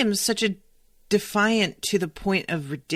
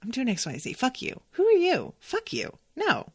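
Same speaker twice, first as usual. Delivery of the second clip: a petulant inner voice, rising higher on each jab, down to a harsh whisper; defiant little voice; 5 semitones higher, 4 dB quieter than usual. Retold or imitated. Host voicing her own stubborn inner voice, defiant and petulant. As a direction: spit it back like a stubborn kid refusing. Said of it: "this little voice going".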